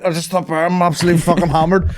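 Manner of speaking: high, breezy admission; cheerful confession. Retold or imitated. Drunk driver confessing to friendly cop, high and breezy. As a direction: own up without a care.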